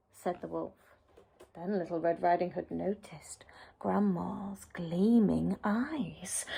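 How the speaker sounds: put-on lively read-aloud voice for children; storybook narration. A narrator's reading. Narrator reading a fairy tale to children, lively storytelling. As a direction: tell the tale with wide swings for young listeners.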